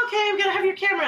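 high-pitched, rushed instructions; imitating a rushed event staffer; hurried staffer. Quoting brisk photo staff orders.

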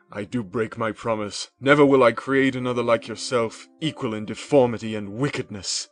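loud, firm refusal; angry defiance. A narrator's reading. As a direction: stand your ground and spit it out. Victor defying the creature.

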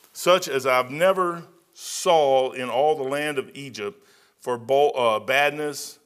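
put-on slow measured reading of the old text; scripture reading. Preacher reading Pharaoh's dream aloud, slow and measured. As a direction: read it out as Pharaoh's account.

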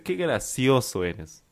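slow, mildly sarcastic jab; annoyed sarcasm. Acted. Friend who thinks she is being lied to, mildly sarcastic. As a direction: draw it out, a little indignant. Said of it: "Una expresión que indica molestia".

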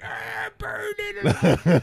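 very high, slow, loud laughing shout; burn it scream. Retold or imitated. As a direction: shout it with manic glee. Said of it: "He's just like".

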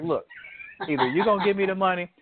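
high, fast, wheedling hustler voice; hammed-up high pleading, rushed; pleading crackhead. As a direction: beg for money like a comic junkie. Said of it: "He's like".

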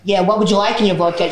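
lightly imitated American server; American-accented server's question. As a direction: put on a mild American accent to take the order. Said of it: "see this accent going abroad".

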